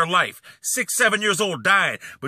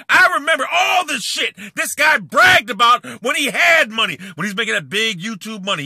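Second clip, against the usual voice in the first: loud, raised, scornful; angry shout; 5 semitones higher, 4 dB louder than usual. Real, not acted. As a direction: blast him for bragging. Ranting about rival's bragging.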